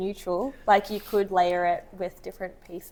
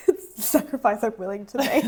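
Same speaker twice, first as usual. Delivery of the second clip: congested voice. Retold or imitated. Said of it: "me really congested saying".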